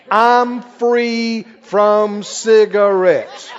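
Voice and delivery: drawn out very slowly, with a laugh; slow demo confession. Shown as a demonstration. Preacher models the confession for the crowd, slow and laughing. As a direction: spell it out slowly for the congregation. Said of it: "let's try it right now".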